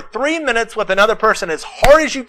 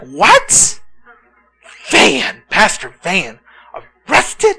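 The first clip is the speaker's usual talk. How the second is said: mock disbelief; much slower than usual. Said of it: "You're like".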